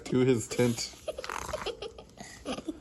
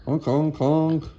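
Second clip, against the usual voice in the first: honking horn; 3 semitones higher, 4 dB louder than usual. Acted. Reader voices horn noise.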